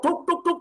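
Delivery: light spoken mimicry of a repeated cough; imitated coughing. Preacher describing a coughing orphan child, imitated cough. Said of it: "ada yang batuk".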